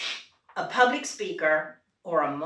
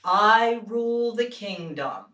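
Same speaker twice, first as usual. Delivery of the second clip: king voice; 4 dB louder, slower than usual. Shown as a demonstration. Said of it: "the king says".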